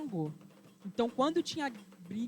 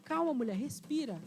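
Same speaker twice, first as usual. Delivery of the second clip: soothing friend; 3 semitones higher than usual. Acted. Exu soothing the furious Yansan.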